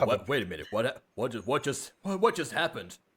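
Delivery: deep voice with pitch climbing upward. Playing a character after being asked to try a deep voice: Nathaniel with a deep voice. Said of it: "pretend you're Nathaniel, but with a deep voice".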